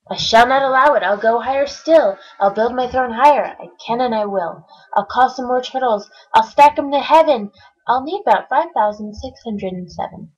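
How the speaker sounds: loud determined boast; defiant vow. Acted. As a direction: declare it to the heavens. Yertle vowing to build higher.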